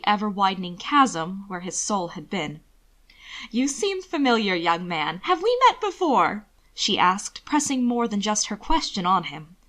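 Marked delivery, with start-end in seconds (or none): 3.5-6.5 high, lilting flirt; a rich old socialite fishing for attention; society lady. Acted. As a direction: pitch the question up high and coy. The woman flirts with Will.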